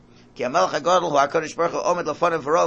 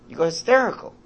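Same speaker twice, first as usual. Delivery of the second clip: mock hysterical; 6 semitones higher, faster than usual. Shown as a demonstration. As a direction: let it jump up like a child losing it.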